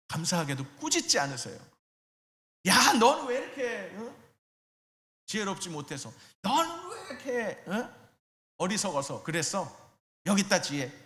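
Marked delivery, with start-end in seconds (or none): 2.7-10.9 mock scolding. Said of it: "이렇게 하시는 분이 아니라".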